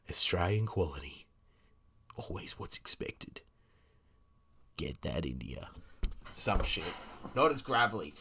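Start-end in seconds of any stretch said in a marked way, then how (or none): 0.1-5.7 put-on low, weary ad voice for an old farmer on his porch; old man on the porch doing an egg ad, low and weary; tired old farmer. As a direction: sigh it out like a worn-out farmer at dusk. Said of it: "gotta be like an old man".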